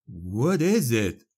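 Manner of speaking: slow, hushed wonder, breathy; barely breathing out of awe; breathless awe. Acted. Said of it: "he said breathlessly".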